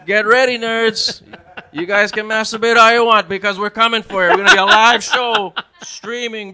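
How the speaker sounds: hyped up. Acted. Hyped challenge to gamers.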